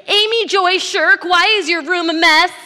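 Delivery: hammed-up mother yelling at her daughter about a messy room; mom scolding. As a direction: shout it like an exasperated mother. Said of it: "when your mother uses all your names".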